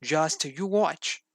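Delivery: slow, boastful big dog voice. A narrator's reading. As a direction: drag it out like a greedy show-off. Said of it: "said Big Dog".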